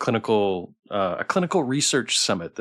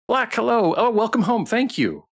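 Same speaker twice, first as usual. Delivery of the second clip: excited greeting; 12 semitones higher, 4 dB louder than usual. Real, not acted. Greeting a chat regular.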